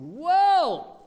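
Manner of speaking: loud, high exclamation of wonder; amazed whoa. Retold or imitated. Preacher amazed at God's words, loud and high. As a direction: gasp it out in amazement. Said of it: "I said".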